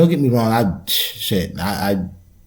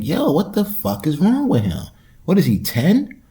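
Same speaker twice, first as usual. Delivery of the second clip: higher, incredulous mock yell; retold outrage; 8 semitones higher than usual. Retelling his disgust at a man on the train. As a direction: react in disgust at a coughing man. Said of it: "but I'm like".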